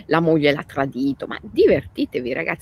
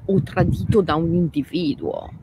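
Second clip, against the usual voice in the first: ordinary delivery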